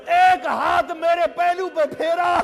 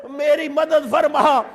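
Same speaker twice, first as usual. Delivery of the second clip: slow pleading invocation. Retold or imitated. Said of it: "ساتھ یہ کہہ دو".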